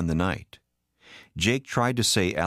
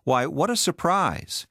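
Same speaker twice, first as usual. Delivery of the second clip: high, drawn-out exclamation; stretched, high-pitched show of surprise; too-loud surprise; 10 semitones higher, slower than usual. A narrator's reading. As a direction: act surprised, overdoing it. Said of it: "she said just a bit too loudly".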